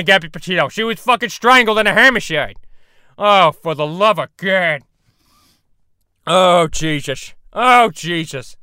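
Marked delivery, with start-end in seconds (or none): 3.2-8.6 drawn-out despairing call; slow weary plea. Acted. Peter calling on Jesus after the killing, slow despair. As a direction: groan it to the heavens slowly.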